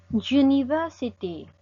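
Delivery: slow "University" opening on a Y consonant; initial consonant sound. Shown as a demonstration. Teacher shows another consonant sound, slow initial Y glide. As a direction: draw out "University", starting with a "you" sound. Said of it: "otro sonido de consonante".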